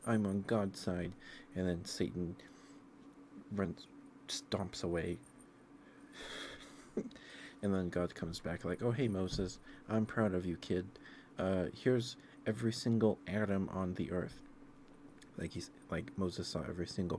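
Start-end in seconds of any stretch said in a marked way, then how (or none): 0.1-1.1 mock scared Moses. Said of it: "gets a little scared". 8.8-14.4 hammed-up friendly God. God praises Moses, retold.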